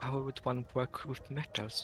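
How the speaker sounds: whispering under breath. Voicing Ares asking the innkeeper about metalwork: whispering under his breath. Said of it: "Ares will whisper".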